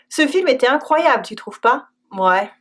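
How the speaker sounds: hesitant, doubtful "Ouais"; a noncommittal "Ouais"; unsure ouais. Shown as a demonstration. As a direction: let "Ouais" sound unconvinced. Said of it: "it can also mean, "I'm not sure".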